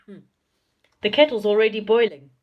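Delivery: very loud, slow shout. A narrator's reading. Friend inviting the deaf Saucepan Man to tea, shouting. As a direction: bellow it slowly for poor ears.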